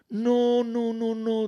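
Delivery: reassuring. A narrator's reading. Poirot calms the frightened maid.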